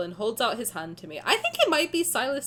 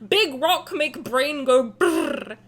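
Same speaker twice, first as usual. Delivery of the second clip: caveman meme voice; 6 dB louder, much slower than usual. Pretend. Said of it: "meme caveman talk".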